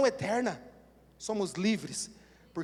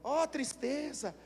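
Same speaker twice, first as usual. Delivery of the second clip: gloomy Wally; 3 dB quieter, much slower than usual. Retold or imitated. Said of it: "Lembra o Wally?".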